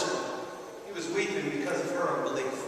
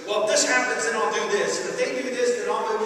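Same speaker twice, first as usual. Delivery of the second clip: fretful planner; 3 semitones higher than usual. Retold or imitated. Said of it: "your pace plan".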